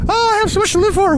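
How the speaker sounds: high mock cheer; sarcastic. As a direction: say it with ironic glee. Sarcastic aside on bridge.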